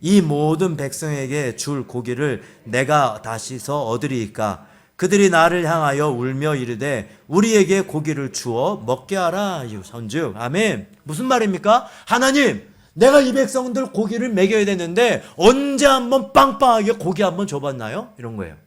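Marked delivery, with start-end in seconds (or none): 0.0-9.6 lower, measured congregational reading; scripture reading. A narrator's reading. Preacher leading congregation in reading Numbers, scripture reading. 12.1-18.1 higher-pitched acted complaint, easing off; grumbling. Moses grumbling to God about feeding the people meat, grumbling. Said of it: "모세의 불평".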